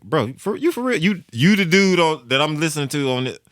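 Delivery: high incredulous bro; amazed question. Retold or imitated. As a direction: stretch it out, stunned. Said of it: "I was like".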